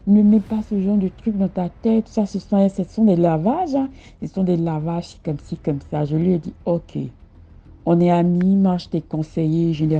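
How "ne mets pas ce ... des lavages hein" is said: friend brushing it off. Retold or imitated. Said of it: "Il m'a dit".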